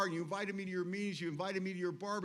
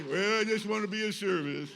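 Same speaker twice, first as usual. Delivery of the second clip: mock innocent; 7 dB louder than usual. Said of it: "And I'd say".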